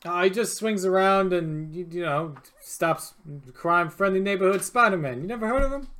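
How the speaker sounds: put-on casual New York accent, bartender talk; lightly voiced New York bartender; New Yorker bartender. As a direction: play a local New York barman. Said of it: "this guy's turned into a New Yorker".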